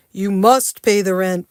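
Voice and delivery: booming stage villain; loud melodrama villain demanding rent; mustache twirling villain. Acted. Melodrama skit with a pen.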